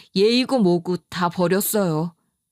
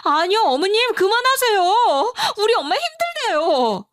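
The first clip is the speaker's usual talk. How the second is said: yelling; 11 semitones higher than usual. Retold or imitated. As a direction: shout her off your mother. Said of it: "악을 질렀어요". (높고 크게 악을 지르는 며느리)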